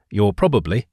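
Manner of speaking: a little extra weight on "probably"; stress on PROBABLY. Real, not acted. Narrator hedging a bomb-safety rule for listeners, stress on "probably". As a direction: lean slightly on "probably". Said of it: "emphasis on probably".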